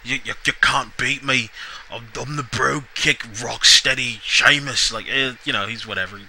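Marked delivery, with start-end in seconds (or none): 0.0-4.9 hammed-up, slow Irish brogue; mock Irish wrestler boast, veering toward Scottish; Sheamus, bad Irish accent. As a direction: have another go at a poor Irish accent, drawn out. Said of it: "can't do it like a really good Irish accent".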